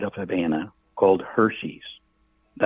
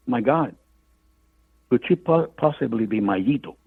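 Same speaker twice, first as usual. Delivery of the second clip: put-on surprised old lady; 2 semitones higher than usual. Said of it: "perks up".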